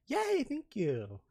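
high, drawn-out little cheer; cutesy delight. Pretend. Streamer thanking chat for calling her cute, cutesy delight. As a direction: squeal it sweetly, slowly.

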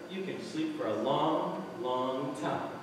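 mad scientist. Acted. Sinister doctor drugs patient.

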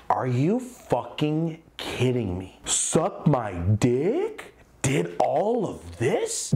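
slow stunned whisper; whispered outrage to himself; whispered disbelief. Retold or imitated. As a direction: hiss it in disbelief under your breath. Silent disbelief at rivals.

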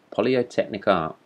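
"polytechnic" said in place of pyrotechnic; mispronounced word. A narrator's reading. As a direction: stumble onto "polytechnic" as the wrong word. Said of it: "Pyrotechnic, pyrotechnic you mean".

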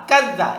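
"কাযযা" with the z doubled; tashdid doubling. Shown as a demonstration. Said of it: "এটা হলো তাসদিদ". ("কাযযা"-য় তাশদীদ দিয়ে চেপে পড়া)

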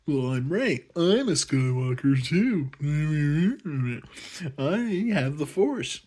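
mock Rey. Rey boasting she's a Skywalker, mock smug. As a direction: boast like the chosen one. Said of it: "And I'm like".

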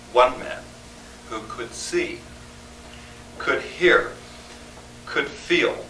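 measured oratory with weighted pauses; formal tribute speech. Acted. Poet honoring John Muir before an audience, measured tribute. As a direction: deliver it phrase by phrase, letting key words land.

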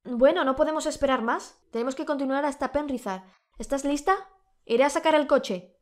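husband shouting up to his wife on the balcony. Acted. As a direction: call it up to her on the balcony. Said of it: "su esposo continuó diciendo".

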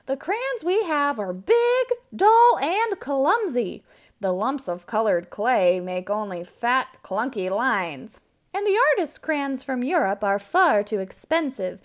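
lightly voiced fed-up complainers; complaining townsfolk. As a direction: whine about the bad crayons.

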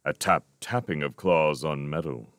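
ordinary delivery

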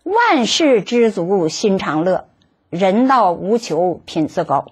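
slow, measured classical verse; poem recital. Acted. Reciting an old verse to her listeners, slow and measured. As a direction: savour each line like an old poem. Repeats the first two lines.

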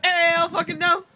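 rising hype yell, slowed; shouted. Pretend. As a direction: shout it with a cracking rise. Club hype call-and-response.

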